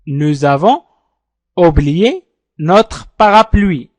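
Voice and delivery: Nous avons oublié notre parapluie said slowly and clearly; slow model sentence. Shown as a demonstration. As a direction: model it slowly, then repeat. (نطق بطيء وواضح للجملة)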